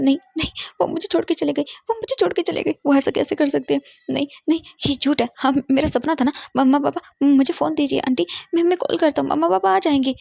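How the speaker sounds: put-on high, pleading child's voice in denial; distraught little boy. Orphaned boy begs Martha to call his parents, high and distraught. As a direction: beg through tears like a lost child.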